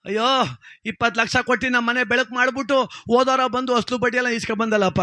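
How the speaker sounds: mock wailing. Debtor mourning at the dead headman's side, hammed-up wailing.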